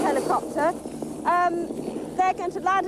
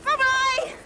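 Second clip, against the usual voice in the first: calling out; 7 semitones higher than usual. Real, not acted. Waving from rising helicopter.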